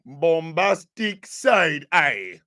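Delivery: slow, drawn-out dramatic delivery. Acted. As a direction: stretch it out for drama. Dramatic catchphrase.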